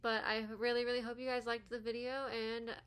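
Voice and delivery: talking with a retainer in; wearing a retainer. Real, not acted. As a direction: speak around a retainer. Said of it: "I have this retainer in".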